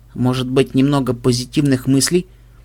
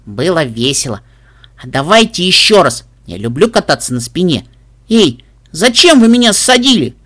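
excited filly voice; 4 dB louder than usual. Acted. Puppy, excited filly speaking.

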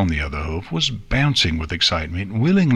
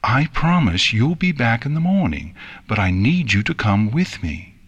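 measured, mildly firm insistence; firm up the tone a little; growing firmer; 3 semitones higher than usual. Acted. Princess insists Nix come along, growing firmer. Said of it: "her tone growing firmer".

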